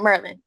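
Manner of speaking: Maryland said as Mer-lan, with the r-coloured first vowel run together; Maryland in her accent. Real, not acted. A student from Maryland saying her home state the local way, Mer-lan. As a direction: Maryland squeezed to two syllables, Mer-lan. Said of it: "The accent".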